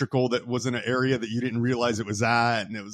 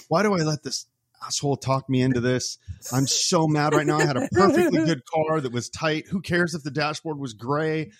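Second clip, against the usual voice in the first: mild mock exasperation; retold cursing, mad; 3 semitones higher than usual. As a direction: retell a fed-up rant with a touch of anger. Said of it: "oh, I was so mad".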